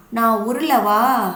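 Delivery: slow, drawn-out playful question; knol-khol asking. Acted. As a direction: coax the crying boy, slowly. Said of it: "அப்படின்னு கேக்குது". (குழந்தையிடம் மெதுவாக விளையாட்டாக கேட்கும் நூல்கோல்)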